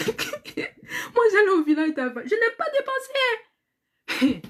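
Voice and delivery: talking through high laughter; half laughing, half crying at herself; words bubbling with real laughter. Real, not acted. Laughing at her own thriftiness.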